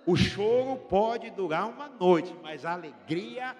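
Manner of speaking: slow, weighty preacher proclamation; slow pulpit proclamation; preaching. Acted. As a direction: stretch out the promise slowly. Preaching the psalm verse.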